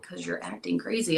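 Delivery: softly whispered answer; retold answer to the jealous husband; whispered retort. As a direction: hush it back at him.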